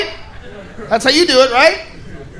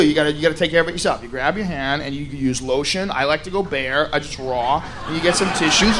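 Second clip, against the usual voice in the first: confiding dad; 5 semitones lower, 7 dB quieter than usual. Acted. Dad advising son quietly.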